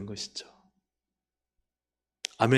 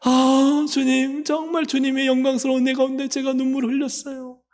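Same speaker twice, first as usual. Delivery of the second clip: high-pitched, mock-weeping cry to the Lord; acted tearful outpouring; 8 semitones higher, 3 dB louder than usual. Believers reaching heaven pour out their trials to Jesus, tearful pleading. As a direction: plead as if overcome by tears, easing at the end. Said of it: "막 울음바다 되는 거예요".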